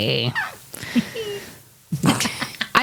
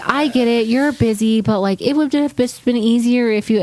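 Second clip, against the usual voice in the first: imitating mom; 5 semitones higher than usual. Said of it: "And she was like".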